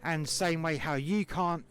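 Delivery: indignant rebuke. Retold or imitated. Worker calling out the boss's double standard, indignant rebuke. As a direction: drive the argument home, mildly heated. Retold row with the boss.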